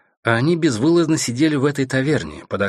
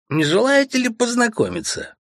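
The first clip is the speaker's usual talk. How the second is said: put-on drunken teasing; 13 semitones higher than usual. A narrator's reading. Drunk noble teases.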